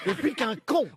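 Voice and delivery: laughing. Real, not acted. Laughing at own flop.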